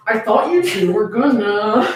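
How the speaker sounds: through her teeth. Acted. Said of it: "she spoke through her teeth".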